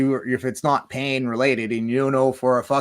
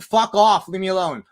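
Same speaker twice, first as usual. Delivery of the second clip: louder, curt refusal to a pushy friend; mock angry brush-off; 2 semitones higher, 5 dB louder than usual. To a friend offering a joint, a loud fed-up refusal. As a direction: tell him to get lost, loud.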